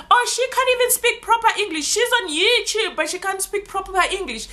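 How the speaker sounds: high, quick sneering mimic of a critic; lightly mock the people who laugh at her English. A vlogger imitating viewers who mock her English, sneering. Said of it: "the people start laughing at me".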